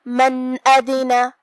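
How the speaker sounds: من ادنا with the نون clearly voiced and no nasal hum, slowly; slow recited من ادنا; tajweed demo. Shown as a demonstration. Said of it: "بغیر غنہ سے حکم کو ادا کریں گے".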